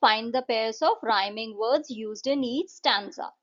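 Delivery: slow, clear question reading; slow textbook read-out; reading a question aloud. Acted. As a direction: read it slowly so the class can follow. Reads question slowly.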